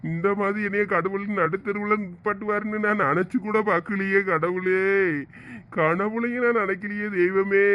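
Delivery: wailing appeal to God; crying. Acted. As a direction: cry out to heaven in despair. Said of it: "நீங்க அழுகிறத பார்க்க".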